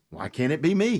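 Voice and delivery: chuckling through a hopeful question; laughing. Retold or imitated. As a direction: laugh it out, half defiant. Joking defiance to doctor.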